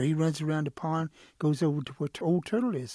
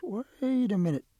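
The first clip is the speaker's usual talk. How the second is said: higher, stretched-out "wait"; stalling protest; 6 semitones higher than usual. Acted. Storyteller as Quail keeping the whistle, stalling protest. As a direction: hold off a friend's demand.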